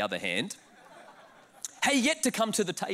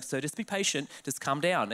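lower, measured soothing; mock-patient clerk; imitated calming clerk; 5 semitones lower, 3 dB quieter than usual. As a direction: settle them down in a low voice. Clerk calming the anxious traveller.

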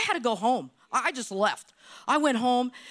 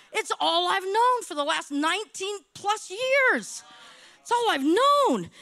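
impassioned complaint to God; 3 semitones higher than usual. Retold or imitated. Restaurant owner crying out to the Lord, impassioned protest. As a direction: plead your case, pitch building.

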